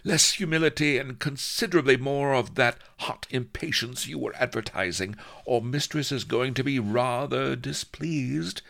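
high, imperious lady; lightly panting, high-pitched command; panting mistress. A narrator's reading. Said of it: "she panted".

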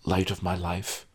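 soft, patient sigh; sighing endearment. Acted. Groom humoring his stubborn bride with a soft sigh. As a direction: breathe it out softly, long-suffering. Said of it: "I sighed".

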